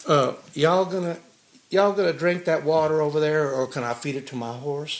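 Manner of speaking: lightly put-on Texas accent, cowboy asking about water; easygoing Texas accent; Texas drawl. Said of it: "You got a little Texas brogue".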